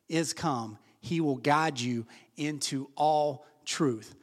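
slow, measured Bible reading; scripture reading. Acted. Pastor reading the Bible aloud to the congregation, slow and measured. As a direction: read the verses out deliberately.

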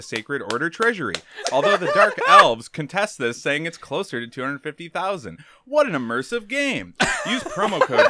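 upbeat mock sponsor read; hammed-up ad read voice; infomercial. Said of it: "our first ad read".

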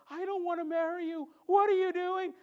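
put-on bursting out at the kneeling boyfriend; retold rejection. Girlfriend refusing a stadium proposal, rising indignant shout. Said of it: "then she looks at him and says".

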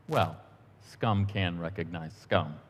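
slow, understated calm reply. Retold or imitated. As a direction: lightly imitate a calm British intellectual, unhurried. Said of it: "and calmly said".

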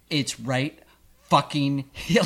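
retold snap instead of laughing it off; irritated retort. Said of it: "and instead of, like, laughing".

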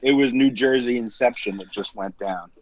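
unvoiced joking aside; whispered aside. Real, not acted. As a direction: whisper the punchline. Whispered joke aside to listeners.

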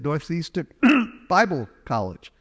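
Northeastern, clear throat, then Bible College said out clearly; throat-clearing restatement. Retold or imitated. Son repeating the school's name to his mother, with a throat-clear before it. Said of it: "What, what was that?".

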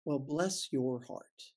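slow, sweet Southern-lady bless your heart; drawn out like a gracious Southern lady; kindly Southern lady. Retold or imitated. Quoting a kindly Southern lady, slow and sweet. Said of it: "kindly Southern lady".

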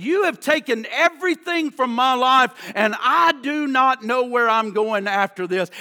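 forceful preached accusation; reenacted bitter outcry; retold angry yell. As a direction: press each phrase at God. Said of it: "And he yelled out".

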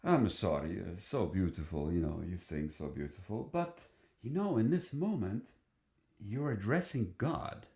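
lightly imitated Italian conductor; mild Italian accent, apologetic then insistent; charming Italian accent. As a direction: gently correct the choir with a hint of Italian accent. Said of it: "in this very charming Italian accent".

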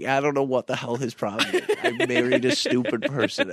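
quoting the wife through laughter, a bit fast; giggly mock complaint about her husband; wife laughing while calling her husband stupid; laughing exasperation. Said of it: "crying laughing because she kept being like".

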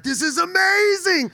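high, slow, squealing mock delight; kid's delight. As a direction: gush like a kid over a new toy.

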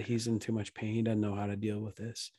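quiet, compassionate explaining; softly console, as a lightly voiced father; gentle fatherly. Heavenly Papa explaining the hurting dad, soft and gentle. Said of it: "a Heavenly Papa is gonna be like".

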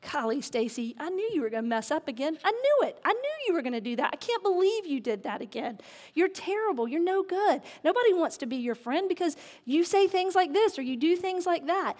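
mock-exasperated telling-off, pitch climbing; frustrated scolding. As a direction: berate like a nagging inner critic. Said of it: "all this negative self-talk in my head".

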